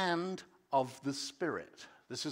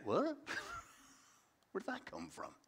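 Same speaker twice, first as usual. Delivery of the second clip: baffled what; 8 semitones higher, 8 dB quieter than usual. Acted. Acting Nicodemus's confusion.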